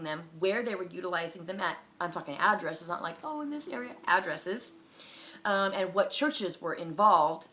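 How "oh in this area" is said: high, soft dismissive quote; lightly mocking, airy imprecision; mock vagueness. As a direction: put on a vague higher voice. Mocks a vague answer about locations.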